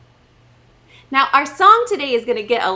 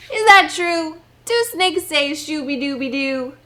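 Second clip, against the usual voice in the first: mock surprise; 4 semitones higher, 3 dB louder than usual. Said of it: "mock doubt to kids".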